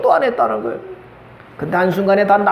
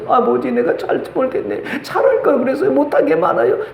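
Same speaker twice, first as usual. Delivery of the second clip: quiet tearful regret; 4 semitones higher than usual. Retold or imitated. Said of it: "조용히 눈물만 흘려".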